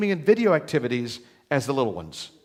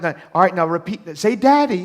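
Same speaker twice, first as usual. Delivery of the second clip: put-on coaxing a child; 6 dB louder than usual. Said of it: "she gets him like".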